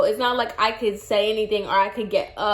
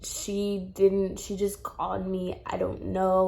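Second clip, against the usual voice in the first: very soft, low, feeble mumble; imitating a faint, suffering patient; weak, pained voice; 3 semitones lower, 7 dB quieter than usual. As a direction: act too drained by pain to speak up. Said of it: "I'm talking like this".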